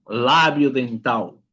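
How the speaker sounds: "labio dental" slowly, final L like a U; Portuguese pronunciation. Shown as a demonstration. Teacher giving students the Portuguese term, slow "labio dental" ending in -au. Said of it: "que le llamamos en español".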